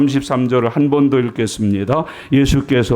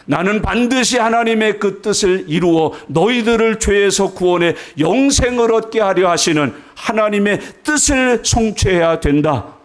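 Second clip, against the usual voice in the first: raised-pitch, resolute proclamation; emphatic preaching; 6 semitones higher than usual. Acted. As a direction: preach it forcefully, stretching the final words. (높은 음으로 힘주어 선포하듯)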